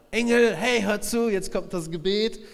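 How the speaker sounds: loud, high commanding call to the angels; rallying shout. Retold or imitated. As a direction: fire them up like a captain. God rallying angels to pour bowls.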